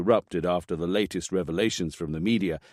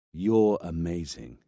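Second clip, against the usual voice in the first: fake compliment; 2 semitones lower, slower than usual. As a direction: repeat the praise mockingly. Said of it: "fake compliments like that".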